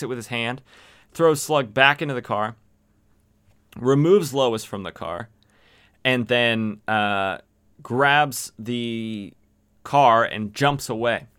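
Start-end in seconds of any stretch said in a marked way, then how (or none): none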